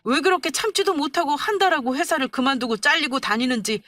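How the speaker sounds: rising, pushing words at his mother; anger boiling over. Acted. Husband finally snaps at his mother, angry. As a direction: let the held-back anger break loose. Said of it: "결국은 폭발하고 만 거였어요".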